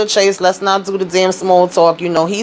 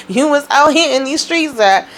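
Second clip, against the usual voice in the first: higher, laughing through the repeat; 8 semitones higher than usual. Retold or imitated. Recapping the show to viewers, she repeats the tease laughing. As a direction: crack up as you say it again. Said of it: "cracked up when she was like".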